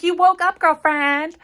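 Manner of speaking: high and loud, bursting with relief; excited friend. Acted. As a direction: greet her like she came back from the dead. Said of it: "she's like".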